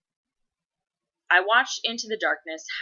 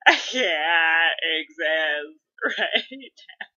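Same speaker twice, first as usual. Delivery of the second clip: hammed-up wail climbing very high; drawn-out, overwhelmed crying voice; imitated sobbing; 5 semitones higher, 4 dB louder than usual. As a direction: squeak words out through mock sobs. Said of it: "just, like, sobbing about it".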